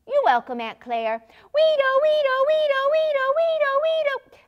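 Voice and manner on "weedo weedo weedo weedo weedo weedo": put-on high, loud child siren wail; siren imitation. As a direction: wail like a fire engine siren.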